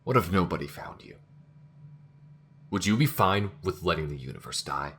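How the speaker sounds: loud, indignant questioning; angry challenge. Acted. Crew member challenging the AI's indifference, loud indignation. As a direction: demand an answer, outraged.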